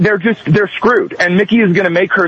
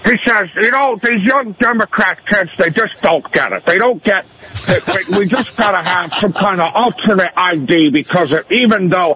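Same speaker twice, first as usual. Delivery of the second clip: Carville impression. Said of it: "then he gets into the stammer fest".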